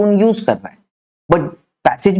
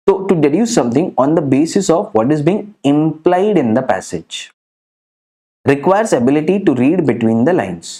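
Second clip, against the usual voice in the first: slow dictation; much slower than usual. Shown as a demonstration. Teacher dictating a definition.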